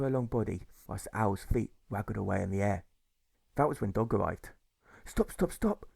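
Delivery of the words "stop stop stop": high calls to stop; urgent high shout of stop. A narrator's reading. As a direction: cry out to halt him. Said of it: "she shouted".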